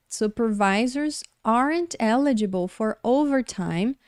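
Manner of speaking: teacher reading the English example slowly. Shown as a demonstration. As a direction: read the sentence slowly and clearly for students. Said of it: "Olha só esse exemplo".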